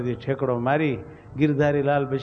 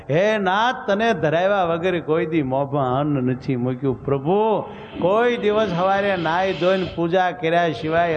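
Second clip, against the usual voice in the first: anguished prayer. Acted. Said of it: "આર્તનાદથી પ્રાર્થના કરી".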